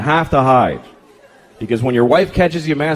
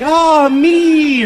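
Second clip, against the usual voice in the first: dreamy woman sighing; 11 semitones higher, 4 dB louder than usual. Retold or imitated. Women pleasuring themselves, a high blissful sigh. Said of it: "They're like".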